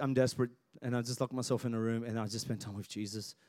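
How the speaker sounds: murmured cry to Jesus; hushed desperate prayer. Retold or imitated. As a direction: pray it quietly, alone in a room. Prayer quote in private desperation.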